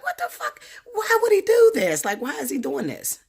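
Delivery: high-pitched cry-laugh of disbelief. Retold or imitated. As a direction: squeal in half-laughing outrage. Retold outburst over tarot cards.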